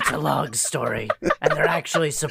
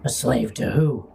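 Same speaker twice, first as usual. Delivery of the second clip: gravel voice; 3 semitones lower than usual. Acted. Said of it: "It's the gravel voice hour".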